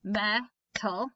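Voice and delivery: "Metal" said in two clear beats; syllable demo. Shown as a demonstration. Teacher modelling syllables, "Metal" split in two. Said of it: "how many syllables does it have".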